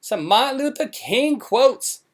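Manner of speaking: high, whiny, slow mock plea from a weepy wife; mock pleading wife. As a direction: squeak it out like a pampered wife begging for mercy. Mocks Brittany again.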